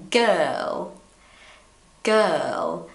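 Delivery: put-on girl in British English, a tiny R; British girl with a barely-there R. Shown as a demonstration. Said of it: "So you go".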